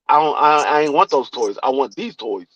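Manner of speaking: put-on low, soft mumbling kid's whine; whiny grandson. Grandpa imitating grandson sulking about toys, soft whiny mumble. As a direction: sulk like a kid denied a toy.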